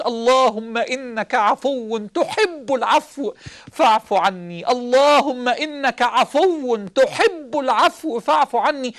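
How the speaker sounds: slow, drawn-out supplication; slow prayer. Acted. Preacher leading the congregation in prayer, slow and pleading. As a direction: plead each word slowly to God.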